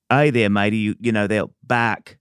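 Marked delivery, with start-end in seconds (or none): 0.1-0.8 put-on Aussie dog accent. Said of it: "they do bark in accent".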